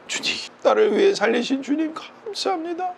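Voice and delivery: high, choked-up prayer, acted out; tearful prayer. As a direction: imitate someone praying alone, overcome with tears. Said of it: "벤치에 앉아서 혼자". (울먹이며 드리는 기도 흉내)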